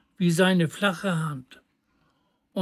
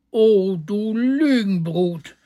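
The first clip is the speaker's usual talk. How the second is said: calling out in anger. A narrator's reading. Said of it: "rief der Schneider".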